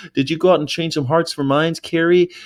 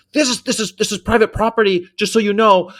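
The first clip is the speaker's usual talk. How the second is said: higher voice for the property owner, a warning tone; 8 semitones higher, 3 dB louder than usual. Retold or imitated. Owner warning the protester off his land, higher mock voice. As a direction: lightly play the man telling the protester off. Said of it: "he's like".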